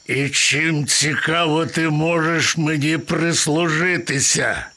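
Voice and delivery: mocking lion question; scornful lion. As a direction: sneer at the useless little mouse. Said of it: "презирливо гмикнув Лев". (презирливо, по-левиному)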